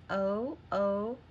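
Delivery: O held long, each one separate. Shown as a demonstration. Teacher asks pupils to hear it, O sounded long. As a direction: draw out each O as a pure long vowel. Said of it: "Do you hear the long O?".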